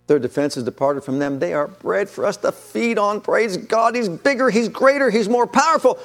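faith-filled boast. Retold or imitated. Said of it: "Or you can say, like Joshua and Caleb".

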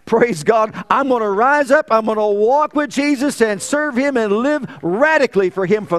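full-throated revival preaching; preaching at full force. Acted. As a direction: build to a roaring preacher's climax. Rising climax of the sermon.

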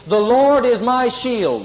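slow, clear words for the church to echo; slow call to repeat. Shown as a demonstration. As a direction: set the words out slowly for them to repeat. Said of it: "Say it with me".

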